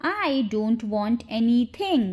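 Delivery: slow, careful teaching pace; slow model repeat. Shown as a demonstration. Teacher shows learners the English sentence, slowly. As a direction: take it slowly, word by word.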